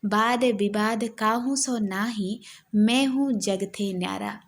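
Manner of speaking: slow, measured chant of a devotional verse; teacher reciting Dadu's verse slowly for the class; slow poem recitation. Acted. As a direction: recite it like a bhajan, unhurried. Recites a Dadu pad.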